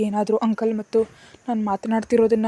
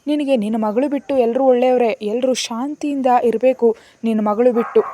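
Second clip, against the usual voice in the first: louder, cutting sarcasm, pitched up; sarcastic; 3 semitones higher, 6 dB louder than usual. Acted. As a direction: sneer it back at her mother. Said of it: "ವ್ಯಂಗ್ಯವಾಗಂದ್ಲು". (ವ್ಯಂಗ್ಯದ ಚುಚ್ಚು ಮಾತು)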